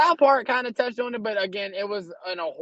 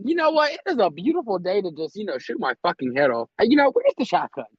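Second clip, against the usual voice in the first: cheerful mock sarcasm. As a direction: sell the dark joke brightly. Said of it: "I'm like".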